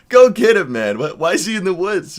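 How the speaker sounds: loud, high voice of tickled cops; high, loud, incredulous send-off; amused cops. Retold or imitated. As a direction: imitate cops hooting at the news. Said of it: "They started laughing".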